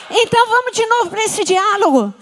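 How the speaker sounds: ordinary talk, nothing marked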